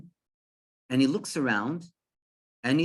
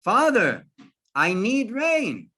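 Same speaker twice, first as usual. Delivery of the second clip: loud, higher, slowing cry to heaven; prayer plea; 6 semitones higher, 5 dB louder, slower than usual. Retold or imitated. Farmer raises hands in prayer to Hashem, calling out loudly. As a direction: call out an acted plea to God. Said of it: "raise my hands in prayer".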